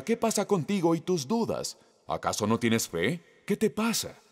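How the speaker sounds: high, reproachful Jesus scolding. Retold or imitated. Preacher voicing a scolding Jesus to Pedro, reproachful. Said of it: "Solía verla como un reproche".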